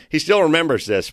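ordinary delivery

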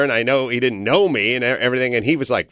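usual speaking voice

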